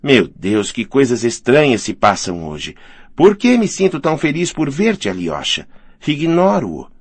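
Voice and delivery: a touch of wondering excitement, lifting on the question; understated excitement, as the hostess marvels at herself; mildly overexcited. Acted. Woman happy to see Alyosha, mildly overexcited. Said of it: "via-se que estava superexcitada".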